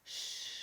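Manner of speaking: long soft sh hiss; sh sound. Shown as a demonstration. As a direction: hold a breathy sh. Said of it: "es este sonido".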